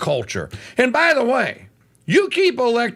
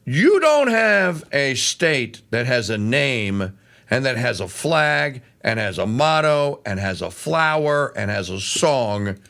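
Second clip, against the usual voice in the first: normal talking voice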